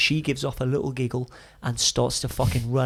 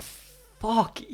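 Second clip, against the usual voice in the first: pitched way up, then a loud "off"; incredulous outburst; 6 semitones higher, 8 dB louder, slower than usual. Retold or imitated. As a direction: blurt it out in shock. Disbelief at Max's story.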